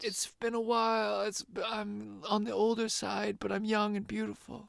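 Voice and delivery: hushed imitation of an older woman; Mercedes. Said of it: "she kinda just talks like this".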